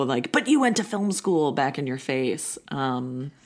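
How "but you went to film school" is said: higher-pitched imitation of an accusing friend; mock reproach. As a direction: throw it back like a mock accusation. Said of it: "just really throw".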